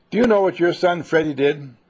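loud, indignant neighbor demanding an answer; angry, accusing question at the door. Acted. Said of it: "In a sort of an angry tone".

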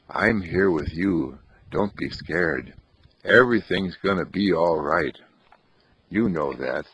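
calm him like a steady friend; reassuring. Acted. Boy comforts the man.

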